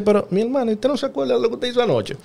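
high, loud disbelieving jab, half laughing; incredulous retort. Retold or imitated. Telling his wife she forgot last night, incredulous. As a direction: retell it like you still can't believe it.

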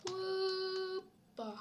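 a startled leap of a word; high surprised hoppa. Real, not acted. Gamer caught off guard by a jump, yelping.

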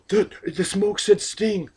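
high, slow amazed gasp of a voice; awed crowd. Retold or imitated. Fans reacting to the smoke, mock awe. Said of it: "And everybody said".

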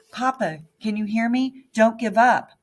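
loud high shout. A narrator's reading. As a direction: yell it into Papa's ear. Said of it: "I shouted again".

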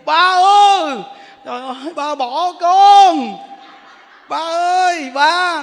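high, drawn-out hammed-up cries; mock loud wailing. Child crawling to a dead father, mock wailing loudly. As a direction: imitate a noisy mourner howling for a parent. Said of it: "Nó kêu um sùm đó".

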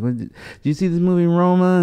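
light mimic of a chatty Uber driver; Hollywood lady. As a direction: play the gushing LA type. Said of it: "she was super Hollywoody".

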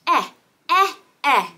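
short, separate "eh" sounds; letter-sound demo. Shown as a demonstration. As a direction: sound out "eh" as the short vowel of egg. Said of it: "That's the sound E makes".

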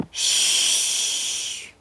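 whispered shush; hushing. Pretend. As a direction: hush them gently, no voice. Hushing the listeners before story.

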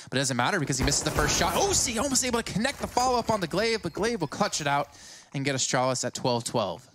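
rising, hyped play-by-play; excited caster. Real, not acted. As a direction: ride the hype through the clutch.

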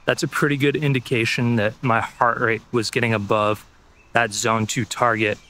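breathless from running; panting between words; out of breath. Real, not acted. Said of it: "walk break right now because it started to get hard".

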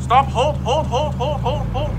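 loud, high repeated commands; urgent shouting. Real, not acted. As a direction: yell at them to stop now. Urgent calls to halt the vehicle.

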